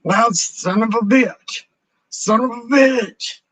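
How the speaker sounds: high, loud frustrated swear; exasperated cursing. Real, not acted. Streamer cursing the broken voice setup, fed up. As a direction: spit out son of a bitch twice.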